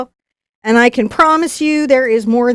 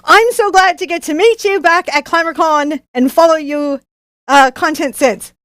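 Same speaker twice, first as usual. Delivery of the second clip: amateur attempt at Australian, slightly higher; bad Australian accent; 4 semitones higher than usual. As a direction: read it out in a shaky-grasp Australian accent. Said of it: "my not good Australian accent".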